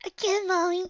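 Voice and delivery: put-on high, loud giggly child voice; giggling. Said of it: "I giggle".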